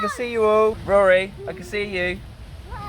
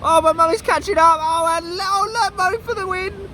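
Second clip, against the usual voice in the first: excited race commentary; slower than usual. Acted. Commentary builds to finish.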